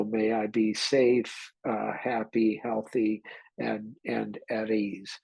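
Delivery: slow, calm, unhurried recitation; calm metta phrases. Shown as a demonstration. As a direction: let each wish settle, slowly and gently. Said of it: "Those are the phrases that I play with".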